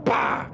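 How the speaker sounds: sudden loud "bah" for a shotgun; imitated gunshot. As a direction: mimic the blast with your mouth.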